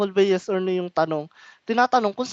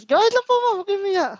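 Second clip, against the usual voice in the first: mock teasing; 10 semitones higher, 4 dB louder, much faster than usual. Teacher teases crying student.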